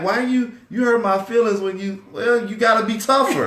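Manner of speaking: high, loud, laughing mock scolding; mock tough-love husband. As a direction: ham up telling her to toughen up. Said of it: "'Cause she'd be like".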